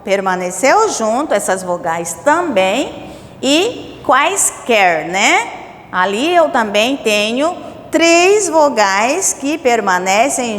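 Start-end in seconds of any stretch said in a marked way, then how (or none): 3.4-5.1 slow demo. Shown as a demonstration. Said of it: "teacher demo of example word".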